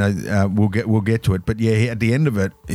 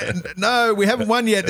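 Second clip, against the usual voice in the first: bad acting; 12 semitones higher than usual. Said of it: "someone will go".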